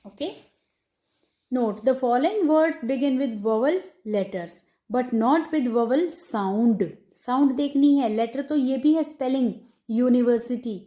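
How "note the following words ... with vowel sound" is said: slow, deliberate dictation pace; dictating a rule. Shown as a demonstration. Teacher dictating a grammar rule to students, slow and measured. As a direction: read it out word by word so students can write.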